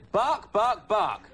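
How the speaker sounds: barking in a light Caine voice; Michael Caine as Lassie. Retold or imitated. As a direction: Caine doing a dog, hammed up. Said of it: "Like this".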